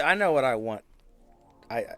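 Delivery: ordinary talk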